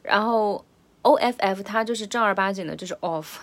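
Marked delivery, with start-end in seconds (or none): 2.9-3.4 "of" with an open round vowel and clear f; full rounded "off". Shown as a demonstration. Teacher showing the proper "off", rounded vowel. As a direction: round the mouth on "of". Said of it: "嘴巴张圆的那个".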